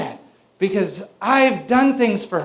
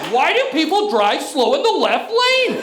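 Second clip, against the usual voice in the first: whiny complaint; 5 semitones higher than usual. Retold or imitated. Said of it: "I'm like".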